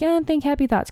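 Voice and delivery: dismissive mock advice. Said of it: "They're always like".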